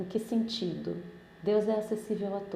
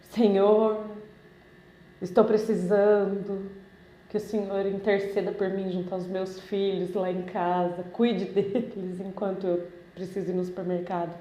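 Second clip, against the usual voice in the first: stiff formal request. Retold or imitated. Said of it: "Você vai conversar assim com seu pai?".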